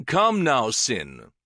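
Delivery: king nearly pleads with his friend; almost pleading. Acted. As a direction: coax him, nearly begging. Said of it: "with an almost pleading note in his voice".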